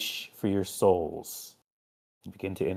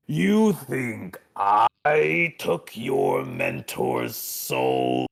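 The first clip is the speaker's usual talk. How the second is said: slow, booming demon lord; Lucifer voice; 4 dB louder, slower than usual. Acted. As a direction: boom it slowly like Lucifer. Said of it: "he goes".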